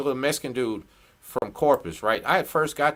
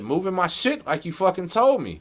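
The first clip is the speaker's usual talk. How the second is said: retold anger; 5 semitones higher than usual. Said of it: "And I'm mad right now".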